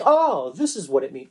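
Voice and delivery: swooping "Oh" of sudden discovery; mock realization. Preacher mimicking a mistaken idea of learning, mock realization. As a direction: pretend it just dawned on you. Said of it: "Jesus isn't learning something like".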